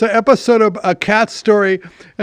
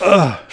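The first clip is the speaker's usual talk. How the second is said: burp; 2 semitones lower than usual. Real, not acted. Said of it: "Why am I burping?".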